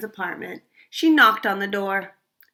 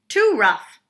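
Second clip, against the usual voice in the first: complaining; 6 semitones higher, 6 dB louder than usual. Acted. Goldie complains of chair.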